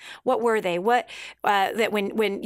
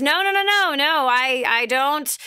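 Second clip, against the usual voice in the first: mock stubborn shout. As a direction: wave off the rescuers, insisting. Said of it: "And he goes".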